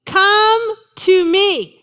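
Jesus's invitation, slow and inviting. Retold or imitated. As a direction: call them in gently, drawn out. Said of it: "He says".

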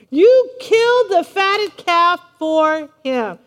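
slow, loud mock indignation; little fit. Older son accusing his father over the calf, indignant. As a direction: spit out the grievance word by word. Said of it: "the son's throwing his little fit".

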